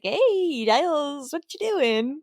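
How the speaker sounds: drawn-out, singsong hey; oblivious, breezy mock greeting; casual greeting. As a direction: imitate a carefree hello to a friend. Acting out Xander casually greeting Giles.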